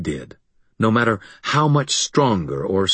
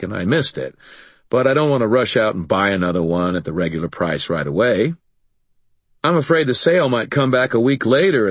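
wisecracking; 4 semitones higher than usual. Acted. Harry jokes at the monster.

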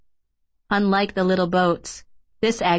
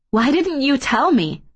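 raised-pitch, indignant demand; 6 semitones higher, 3 dB louder than usual. A narrator's reading. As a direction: demand an explanation, voice climbing. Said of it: "Kay demanded".

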